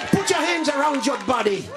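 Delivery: high, commanding preacher's call; preacher's prayer command. Real, not acted. Preacher telling the sick to lay hands on themselves, commanding. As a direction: call the congregation to prayer with urgency. Leads congregation in healing prayer.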